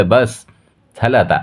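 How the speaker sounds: bubbling over with plans for their life together; happy. Acted. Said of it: "आनंदाने ऊर्जाला म्हणतोय".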